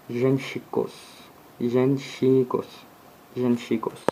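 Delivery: Genshikos with a clear final s; plural demo. Shown as a demonstration. Teacher drilling the plural form, repeated demo. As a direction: stress the s at the end of Genshikos. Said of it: "Son pluriel est".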